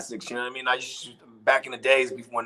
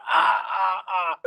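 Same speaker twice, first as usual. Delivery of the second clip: mock mobster guffaw, drawn-out "ah"s; hammed-up "ah, ah, ah" laugh; imitated mobster laughter; 4 semitones higher, slower than usual. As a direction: laugh like a jeering mobster, put on. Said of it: "started laughing".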